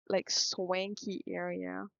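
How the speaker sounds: swanky stretched out slowly, savoured; slow, playful swanky; drawn-out swanky. Shown as a demonstration. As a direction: linger on swanky for effect. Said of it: "I don't know why I said swanky like that".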